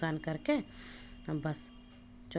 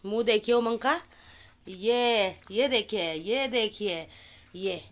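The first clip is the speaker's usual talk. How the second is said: loud, high, playful telling-off; teasing scold; 4 semitones higher, 6 dB louder than usual. Real, not acted. Mother loudly shaming her chocolate-smeared son to viewers. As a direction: show everyone the mess he made, half laughing at him.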